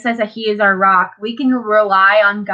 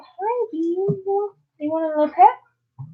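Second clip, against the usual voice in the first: mock cutesy greeting; 9 semitones higher, 4 dB quieter than usual. Greeting a stranger walking on water, mock-sweet high voice. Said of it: "I'd be like".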